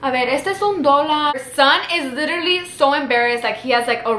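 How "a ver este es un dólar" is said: mildly mocking, put-on counting; a touch of pointed sarcasm; sarcastic counting. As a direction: imitate someone counting coins sarcastically. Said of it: "she was doing it sarcastically".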